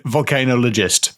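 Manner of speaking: volcanologist with a clear KAY, vol-kay-NOL-ogist; corrective pronunciation. Shown as a demonstration. Co-host corrects the host, saying volcanologist as vol-kay-NOL-ogist. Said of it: "I believe it's pronounced".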